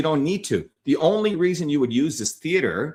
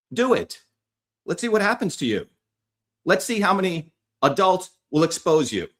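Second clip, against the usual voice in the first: higher taunting dare; 4 semitones higher than usual. Real, not acted. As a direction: dare them, higher and sharper. Daring critics to confront him.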